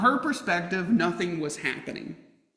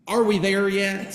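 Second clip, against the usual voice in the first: put-on whiny kid; 7 dB louder than usual. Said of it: "came the dreaded phrase".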